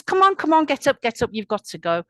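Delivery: urgent scolding, high and loud start easing down; commanding. A narrator's reading. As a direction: hurry someone off like a nagging boss. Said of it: "he stops commanding him".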